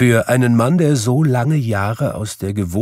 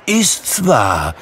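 surprised cry; 4 semitones higher, 4 dB louder than usual. Acted. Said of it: "sagte Scrooge".

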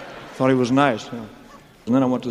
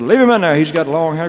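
mocking crowd; 4 semitones higher, 5 dB louder than usual. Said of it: "And they said".

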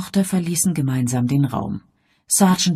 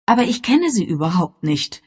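raised, mildly bitter protest; 5 semitones higher, 4 dB louder than usual. A narrator's reading. Mother admitting she doesn't know her daughter, bitter. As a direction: protest with bitterness, pitch lifted. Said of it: "sagte Bess Sedgwick verbittert".

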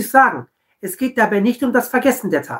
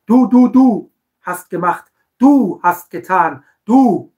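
mock blaming; 4 dB louder, slower than usual. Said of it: "Immer diese Du-Botschaften".

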